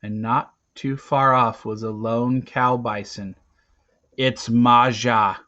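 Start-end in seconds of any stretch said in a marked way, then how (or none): 4.2-5.4 excited. Acted. Recognizes his mother's cow.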